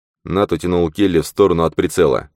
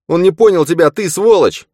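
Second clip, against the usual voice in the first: high, loud enraged yell; furious shout; 7 dB louder than usual. A narrator's reading. Nat shouts at Zane in fury over the shot shaman. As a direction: scream it in his face, purple with rage. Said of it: "Нат крикнул Зейну".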